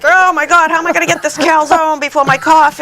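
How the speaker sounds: mock the firefighters' fake complaints; mock whining. Mocking lazy firefighters.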